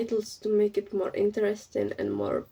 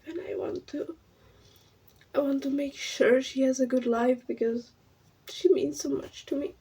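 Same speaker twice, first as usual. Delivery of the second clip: tearful; 4 semitones higher than usual. Real, not acted. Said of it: "I'm crying".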